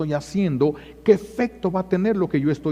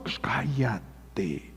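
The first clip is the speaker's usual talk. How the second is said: hushed, very slow hush; 6 semitones lower, 9 dB quieter, much slower than usual. Shown as a demonstration. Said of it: "hushing the self-critic".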